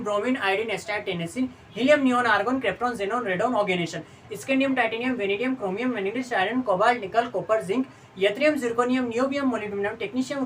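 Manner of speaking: steady run-through of element names in small groups; rote recitation. Shown as a demonstration. Teacher showing students how to pronounce the periodic table, rote recitation. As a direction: recite the list by heart, name after name. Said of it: "एक बार बोल के बता देता हूँ".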